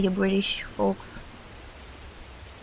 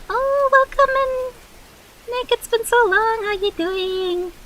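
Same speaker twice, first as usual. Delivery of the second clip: delighted greeting; 12 semitones higher, 4 dB louder than usual. Real, not acted. Greeting returning viewer Nick.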